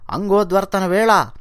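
scolding his wife over the lost ring, angry; angry husband yelling. Acted. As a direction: demand the ring back in anger. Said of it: "అని చెప్పి అరుస్తాడు".

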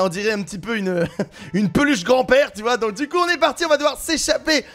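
ordinary talk, nothing marked

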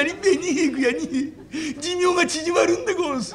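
a simple lad telling his woes; rustic wrestler confessing. Acted. Wrestler explains his plight.

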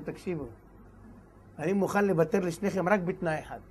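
soft, low confiding voice; hushed royal offer. Acted. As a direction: draw them in quietly. King speaks to the two friends. (לחישה רכה של מלך)

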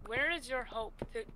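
soft unvoiced whisper. Real, not acted. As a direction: whisper so the mob won't notice. Sneaking near a mob.

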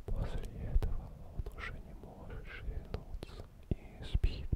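calm whisper. Acted. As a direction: whisper the story to lull them asleep. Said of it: "таким тихим, тихим, спокойным шепотом".

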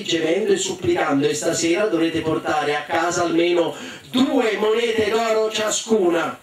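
predica un po' declamata ai figli; madre imperiosa. Acted. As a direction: madre che detta ordini, rallentando sulle parole chiave. (madre che comanda con enfasi leggera)

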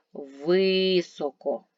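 "Високо" with a long, loud ВИ; stress on first syllable. Shown as a demonstration. Teacher checking a vowel for pupils, drawn-out stressed ВИ in Високо. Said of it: "в наголошений".

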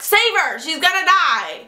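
high, dramatic mock cry for help; hammed-up stage plea, not really shouted; acted yell. Chorus member pleading for a woman's life, mock yell. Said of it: "and yell".

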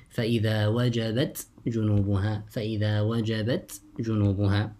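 وجبت with its final ت released before جنوبها; izhar. Shown as a demonstration. Teacher shows students how you say it, izhar. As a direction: keep ت and ج apart in وجبت جنوبها. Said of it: "you also recite with الإظهار".

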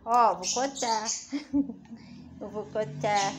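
loud, slow mock warning to the bird; playful loud warning; mock threat. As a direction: drag it out, pretending to threaten.

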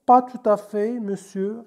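a mildly clipped, dry answer; curt reply. Acted. Teacher voicing the waiter answering the manager, mildly curt. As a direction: answer shortly, lightly acted. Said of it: "répondit sèchement le serveur".

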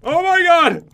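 loud, high startled cry of oh my god; alarmed shout. Real, not acted. Gamer startled as the mob hits her, shouting in alarm. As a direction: yelp it out as the hit lands. Sudden damage in game fight.

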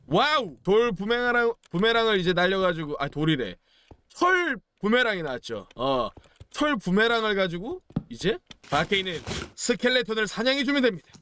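usual speaking voice

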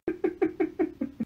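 high, breathy run of giggles; helpless laugh at shared misery; light staccato laughter; giggling. Acted.

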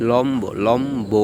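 লম্ব slowly as lawm-bo; b fully sounded. Shown as a demonstration. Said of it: "ব উচ্চারিত হবে".

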